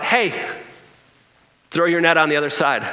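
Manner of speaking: retold call from the beach; calling out from shore. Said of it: "he calls out".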